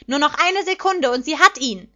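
high, loud, rising suspense; excited commentator's shout. A narrator's reading. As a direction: call the imminent catch to the crowd. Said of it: "schrie der Kommentator aufgeregt".

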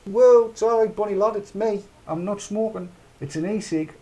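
high, loud start of a cheeky comeback, easing down; answering the staff who told him off, mock indignant; mock indignant retort. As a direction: brush the waiter off, mock offended.

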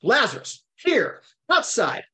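slow, high commands, each on its own; commanding cry. Retold or imitated. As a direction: call out each word with authority. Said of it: "all commands".

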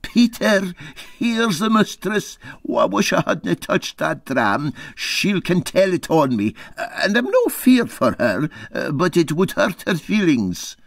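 a hint of a scared mate whispering a warning; Dougie fretting. Dougie warning Peter his wife is coming, nervous. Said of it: "turned to me, saying".

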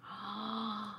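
quiet, drawn-in gasp of delight; hushed little gasp; soft gasp. Real, not acted. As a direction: gasp softly in admiration. Admiring the doll's soft hair.

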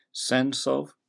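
"Sense" hit high and loud, "of" light; stress on Sense. Shown as a demonstration. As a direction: punch "Sense", let "of" fall away.

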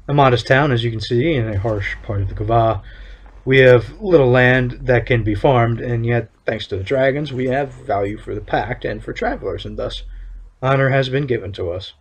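lightly voiced stern official, measured and solemn; town overseer. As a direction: read it as a proud town overseer laying down the law. Reads overseer's NPC lines.

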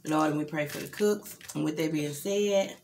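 saying grace, low and steady; prayer. Real, not acted. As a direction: bless the food like a prayer. Saying grace before meal.

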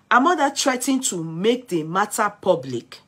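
loud, emphatic read of a gossip story; projected read-aloud of scandal news. Real, not acted. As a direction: read it out firmly, punching the phrases. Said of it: "let me see if I can read the story".

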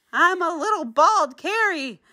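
high, whiny little-voice lament; self-pitying. Acted. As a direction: pout over being bald. Character lost hat and glasses.

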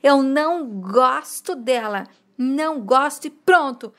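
imitating a crying child. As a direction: retell the child's tearful line without real tears. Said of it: "diz chorando". (imitando choro de criança, leve)

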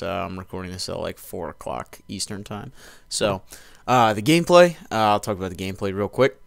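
talking around a lip of dip; lip full of dip. Real, not acted. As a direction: speak with tobacco packed in the lip. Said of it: "Sorry, packing a dip as usual".

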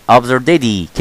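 ABSURDITY with the ending snatched lightly as dee; quick, light D. Shown as a demonstration. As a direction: toss off "absurdity" as ab-zur-di-dee. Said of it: "على السريع اخطف كده".

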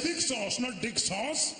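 put-on high accented correction; high Asian-accented waiter; waiter's Asian accent. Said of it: "I said".

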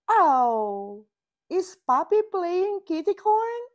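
high, quick and eager; a puppy bursting to join in; excited puppy. A narrator's reading. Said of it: "says Puppy".

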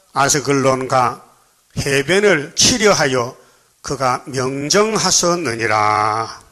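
slow, measured Bible reading voice; scripture reading. Acted. Pastor reading Zephaniah to the congregation, slow solemn reading. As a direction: read the prophecy slowly and solemnly to the church.

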